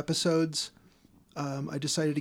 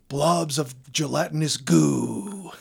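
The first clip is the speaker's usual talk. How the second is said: Robert Stack impression; 4 dB louder, much slower than usual. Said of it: "you get to hear Robert Stack say".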